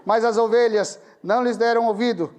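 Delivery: leitura solene em voz alta, bem projetada; leitura bíblica. Retold or imitated. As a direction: proclamar o versículo pausadamente. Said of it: "cheguei no versículo oito, que diz". (lendo a Bíblia em voz alta, com solenidade)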